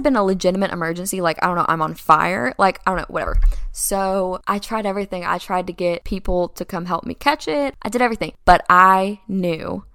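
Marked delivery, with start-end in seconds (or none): none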